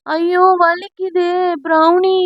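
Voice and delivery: hammed-up pain wail. Husband fakes a pain cry to his wife, hammed-up wail. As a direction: whine it to win her sympathy. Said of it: "தன் அலறலை ஆரம்பிக்க".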